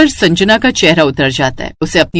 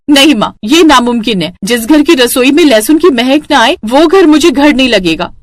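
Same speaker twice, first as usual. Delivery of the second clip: slightly raised, insistent protest; defiant refusal; 4 semitones higher than usual. Acted. Daughter refusing her mother's match, defiant. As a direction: refuse firmly, with a touch of outrage.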